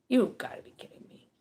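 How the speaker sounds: fast, loud exclamation of disbelief. Retold or imitated. Surprised face staring at you, fast loud disbelief. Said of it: "looking at you like".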